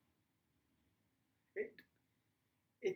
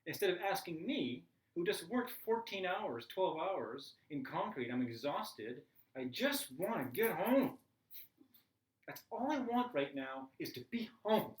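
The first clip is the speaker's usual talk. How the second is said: rising exasperated rant at the family. Retold or imitated. Tired stepdad venting at the stepson on the phone, rising indignation. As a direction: build from sarcasm to a pleading complaint.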